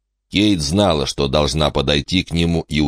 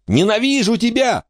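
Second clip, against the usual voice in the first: put-on high, furious girl's scream. A narrator's reading. Angry sister screaming at her brother. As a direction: scream your hatred at the brother. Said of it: "завопила Эмма на Майкла".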